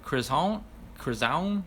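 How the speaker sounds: "Chris Hound" with a soft nasal "Hound" like croissant, rising; pronounced like croissant. Shown as a demonstration. Host repeats a viewer's correction, "Chris Hound" like croissant. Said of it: "like croissant".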